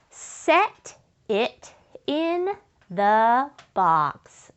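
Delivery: slow, stretched reading of the sentence. Shown as a demonstration. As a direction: drag each word out for the children. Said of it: "say that with me".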